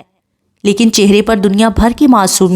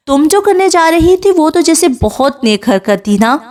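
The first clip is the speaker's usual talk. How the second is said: higher-pitched, mocking comeback; sarcastic retort; 7 semitones higher than usual. A narrator's reading. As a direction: throw the blame back, sarcastically. (طنزیہ جواب)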